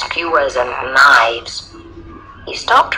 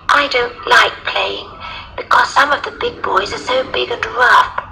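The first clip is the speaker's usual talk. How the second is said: put-on high little girl voice; 9 semitones higher than usual. A narrator's reading. Little girl explaining to the lion, high child voice. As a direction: confide as a small child, pitched up.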